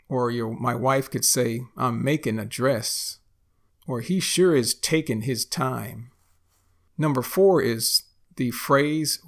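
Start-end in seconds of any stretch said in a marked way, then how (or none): 1.8-3.2 "making" as makin'; dropped G. Shown as a demonstration. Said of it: "we say making". 4.0-6.1 "taking" as takin'; dropped G. Shown as a demonstration. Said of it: "we say taken".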